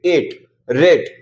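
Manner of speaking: एट and रेट said slowly with a clear "ay" vowel; long a demo. Shown as a demonstration. A teacher repeating the silent-e words slowly. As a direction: stretch the "ay" in एट and रेट. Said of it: "इसको ए पढ़ेंगे".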